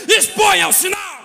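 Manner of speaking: full-voiced, high pulpit shout; loud, high preacher's proclamation; shouted command. Real, not acted. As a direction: cry the command out to the whole church. Preacher cries out the message's command.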